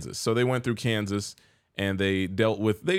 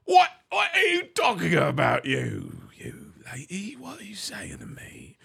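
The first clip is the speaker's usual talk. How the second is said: put-on trash British accent; 7 semitones higher than usual. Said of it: "told me my British accent was trash".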